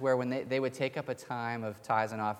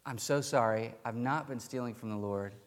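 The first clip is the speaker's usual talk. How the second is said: gentle reply; 4 dB quieter than usual. Retold or imitated. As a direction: answer the accusers mildly, easing the volume down. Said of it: "he was very gentle in his response".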